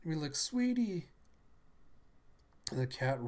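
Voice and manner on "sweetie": high-pitched acted call; "sweetie" in a much higher voice; anxious calling. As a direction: call out to a child in danger. Calling to the falling child.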